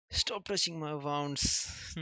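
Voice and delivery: loud, slow pained complaint; pained protest. Acted. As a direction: drag it out, wincing loudly. Giant protests painful hug.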